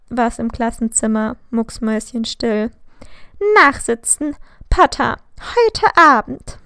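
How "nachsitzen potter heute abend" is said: stern order. A narrator's reading. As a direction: lay down the punishment, no discussion. Teacher hands out detention.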